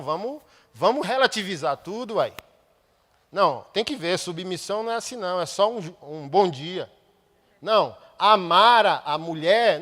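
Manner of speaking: loud, driving sermon delivery; fiery preaching. Acted. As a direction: preach it hard to the congregation. Preaching at full force.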